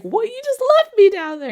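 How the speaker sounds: outraged shriek, played for laughs; mock furious yell. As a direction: scold him, hammed-up. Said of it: "She's like".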